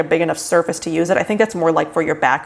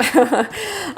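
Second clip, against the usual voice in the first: high laugh; 10 semitones higher than usual. Real, not acted. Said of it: "I'm not pregnant".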